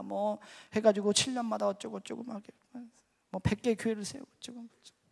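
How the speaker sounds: imitated long-winded account trailing into filler; rambling explanation. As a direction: rattle on through the excuses. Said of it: "설명을 또 막 장황하게 했습니다".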